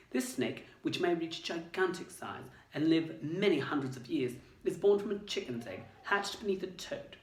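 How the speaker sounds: lightly voiced girl reading an old book; a hint of Hermione reading aloud; Hermione's voice. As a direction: read it like a clever schoolgirl. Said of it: "I'll read it in Hermione's voice".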